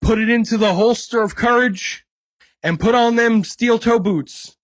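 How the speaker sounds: put-on Southern accent. Host leading co-host into a dense story in a light Southern accent. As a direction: play the Southern guide, hamming lightly. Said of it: "I don't know why I put on a Southern accent".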